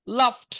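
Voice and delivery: লাফড ending in a crisp t, "laft"; teacher models লাফড as "laft"; final t sound. Shown as a demonstration. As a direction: say the written d of লাফড as t. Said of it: "কিন্তু উচ্চারণ হবে টি".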